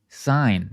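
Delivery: "sign" drawn out as the stressed syllable. Shown as a demonstration. Teacher isolating the stressed part of resign, "sign" drawn out. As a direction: give "sign" full, slow weight. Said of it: "stress the second syllable".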